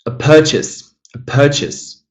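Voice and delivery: "purchase" with first syllable stressed. Shown as a demonstration. Teacher models the noun for students, first-syllable stress in "purchase". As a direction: hit the PUR in "purchase". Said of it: "Nothing changes here".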